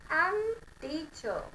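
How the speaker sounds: teacher said very slowly, r dropped; slow drill. Shown as a demonstration. Teacher to class, teacher said very slowly with no r. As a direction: draw out teacher with no r. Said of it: "drill last word".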